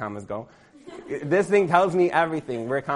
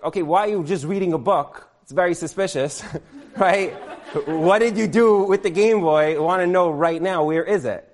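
a mock-stern parent grilling his kid; hammed-up interrogation, building to the demand; stern accusing tone; 2 semitones higher than usual. Parent grilling his son about the missing Game Boy, in mock-stern voice. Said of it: "So we don't say it in that tone".

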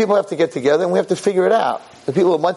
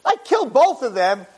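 boastful; 6 semitones higher than usual. Shown as a demonstration. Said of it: "He wasn't showing off".

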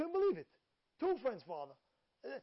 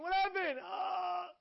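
high startled cry; 10 semitones higher, 6 dB louder, much slower than usual. Retold or imitated. No parking at bris.

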